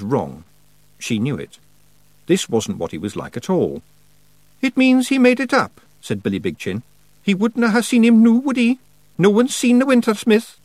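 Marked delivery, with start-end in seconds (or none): 4.6-10.6 high, louder Scots voice; loud Scottish pictsie. A narrator's reading. Billy Big Chin explaining to Tiffany, loud Scottish voice. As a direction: bold little Scots fighter.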